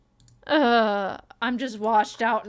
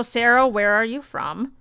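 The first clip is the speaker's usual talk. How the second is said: normal talking voice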